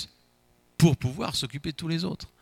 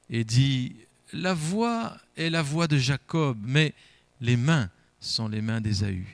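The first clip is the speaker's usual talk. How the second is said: measured Bible reading to the congregation; a preacher reads Isaac's blessing to the church, solemn and measured; scripture reading. Acted. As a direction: read the passage with solemn weight. Reads Genesis aloud in church.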